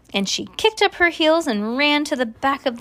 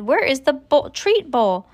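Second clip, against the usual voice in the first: raised, higher demand; mild shout; 5 semitones higher, 4 dB louder than usual. A narrator's reading. Eugenia demanding the treat bowl, shouting mildly. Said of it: "Eugenia shouted".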